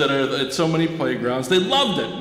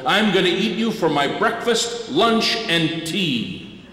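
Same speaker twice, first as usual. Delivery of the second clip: troll threat; 3 semitones higher than usual. Acted.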